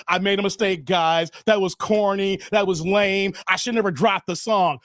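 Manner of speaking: a hint of a meek apologizing rapper; mock apology. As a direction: whine it out like a sorry rapper. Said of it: "talking about".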